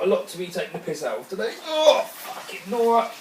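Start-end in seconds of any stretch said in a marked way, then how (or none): 1.7-3.1 strained curse. Real, not acted. Cursing while struggling to lift.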